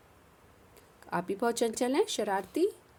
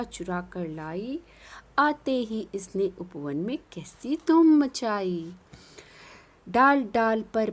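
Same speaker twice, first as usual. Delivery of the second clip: put-on sing-song poem reading for children; poem recitation; 4 dB louder, slower than usual. Teacher recites poem to class in a lilting voice.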